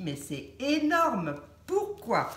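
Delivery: re-enacted astonishment. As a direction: act out being stunned, stretching the words. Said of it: "je me suis dit". (étonnement rejoué, en traînant)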